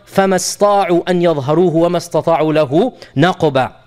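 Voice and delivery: chanted Quranic recitation, measured tajweed. Acted. Teacher reciting the verse for his class, in recitation.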